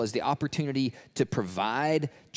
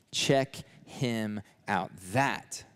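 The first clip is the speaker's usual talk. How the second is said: slowly, word by word, with weight; slow emphatic announcement; 2 semitones lower, much slower than usual. Retold or imitated. John pointing his disciples to Jesus, slow and emphatic. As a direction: point him out in slow, separate words.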